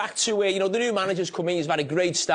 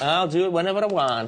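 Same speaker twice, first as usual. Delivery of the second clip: mock American accent; bad put-on American twang. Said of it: "Your American accent, awful".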